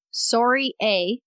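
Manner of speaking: put-on Canadian "sorry, eh"; lightly hammed-up Canadian accent. Shown as a demonstration. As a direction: say it like a stereotypical Canadian. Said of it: "in a Canadian accent".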